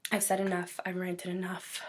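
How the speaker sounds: strained, worn-out voice; hoarse voice. Real, not acted. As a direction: speak hoarsely, voice giving out. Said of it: "losing my voice here".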